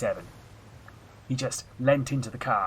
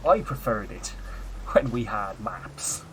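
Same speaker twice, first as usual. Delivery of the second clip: Dara O'Brien; 4 dB louder, slower than usual. Retold or imitated. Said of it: "I've actually gone very Dara O'Brien now".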